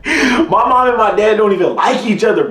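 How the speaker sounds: amused laugh recalling it. Real, not acted. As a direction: laugh while telling it. Laughing at the memory.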